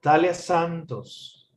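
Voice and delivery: slow, measured name with clear focus stress; deliberate teacher's model of Talia Santos; stress on focus word. Shown as a demonstration. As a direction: say Talia Santos slowly, ending on a fall. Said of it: "Pitch on the focus words".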